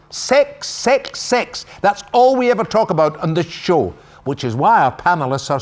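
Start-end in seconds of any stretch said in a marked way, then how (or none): 0.1-1.7 sex sex sex. Acted. Host mock-excited repeated word.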